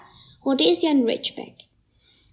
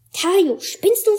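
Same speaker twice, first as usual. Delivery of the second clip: angry hiss; 7 semitones higher, much slower than usual. A narrator's reading. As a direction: hiss the name out in slow fury. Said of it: "fauche ich".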